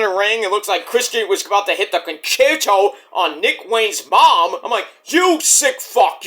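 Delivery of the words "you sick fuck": high, drawn-out scolding; mock outrage. Fan to Christian threatening the mom, mock outrage. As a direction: stretch it out in mock disgust. Acts own outraged reaction to villain.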